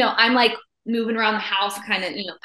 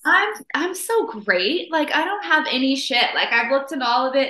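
lightly hammed-up smugness, pretending to be healed; a hint of cocky bragging, higher pitched; mock self-satisfied; 5 semitones higher, 4 dB louder than usual. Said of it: "you're like".

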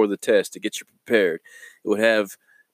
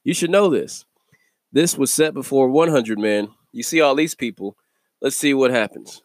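slightly raised pitch, lightly acted teacher; lightly voiced Jesus; 4 semitones higher than usual. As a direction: paraphrase him testing his disciples, a little higher. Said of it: "He's like".

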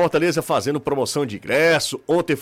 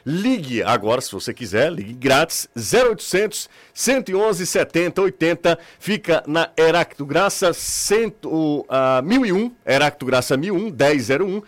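radio ad read. Acted.

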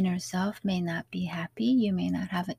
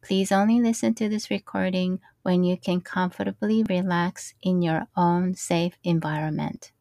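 scripted notice, firm opening then steady; careful podcast safety announcement; safety disclaimer read; 4 dB louder than usual. Acted. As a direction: read a prepared listener warning clearly.

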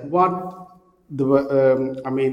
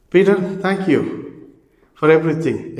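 cheerful cat voice; 4 semitones higher, 6 dB louder than usual. Acted. Cat thanks Peter, story punchline.

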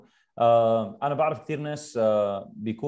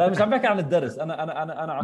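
laughing; 3 semitones higher, 4 dB louder, faster than usual. Real, not acted. Laughs while correcting the misunderstanding.

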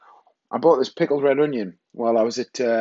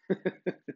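soft high giggle; amused chuckle; 7 semitones higher, 10 dB quieter than usual. Real, not acted. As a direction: chuckle at your own punchline. Laughs at own punchline.

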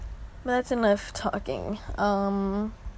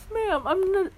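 higher, cutting retort; higher pitched savage clapback; smug comeback; 8 semitones higher, 3 dB louder than usual. Retold or imitated. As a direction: deliver the burn with relish. Comeback in story dialogue.

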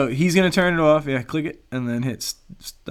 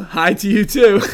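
laughing; 3 semitones higher, 5 dB louder than usual. Real, not acted. Reading a text, cracking up.

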